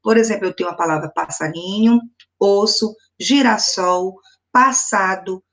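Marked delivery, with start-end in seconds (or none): none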